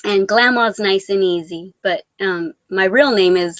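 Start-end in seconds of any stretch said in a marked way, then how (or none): none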